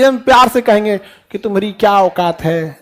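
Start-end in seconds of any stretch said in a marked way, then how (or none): 1.4-2.8 said sweetly. Shown as a demonstration. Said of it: "ऐसे प्यार से बोलेंगे".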